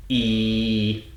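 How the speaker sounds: "E" held plainly through a big smile; simple unsung E. Shown as a demonstration. Coach shows middle of mouth, plain smiling "E". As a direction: sustain "E" simply, lips spread, without singing. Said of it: "Don't sing it".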